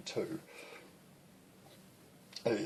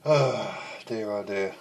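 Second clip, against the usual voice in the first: out of breath. Real, not acted. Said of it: "I'm so out of breath".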